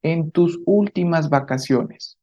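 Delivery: ¿a dónde viajaste en tus últimas vacaciones? said slowly, each word clear; slow model question. Shown as a demonstration. Teacher repeating question for students, slowly. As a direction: read it out slowly for learners. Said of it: "vamos a decir".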